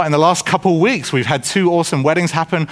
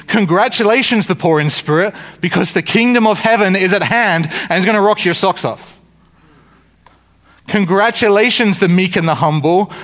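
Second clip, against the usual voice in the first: rousing congratulations; 4 semitones higher than usual. Acted. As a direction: lift each congratulations high, then settle. Voices Jesus congratulating the lowly.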